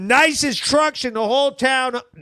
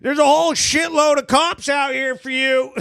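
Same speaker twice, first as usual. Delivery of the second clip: mock background shout; 4 semitones higher than usual. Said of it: "you hear him in the background go".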